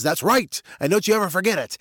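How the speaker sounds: lightly voiced swaggering lion; smug lion. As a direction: crow it like a self-satisfied king. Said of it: "He says".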